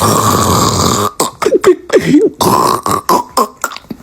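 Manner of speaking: mock snoring, long rasping breaths; imitated snoring. Friends asleep in the car, mock snoring.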